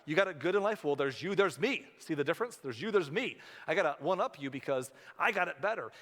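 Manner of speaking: loud, smug one-upmanship; mock bragging. Preacher mocking a bragging relative, loud and smug. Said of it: "we tend to say".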